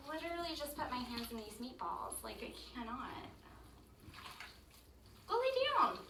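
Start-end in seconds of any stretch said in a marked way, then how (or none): 5.3-6.0 firm command to dog. Real, not acted. Ordering dog away from cooking.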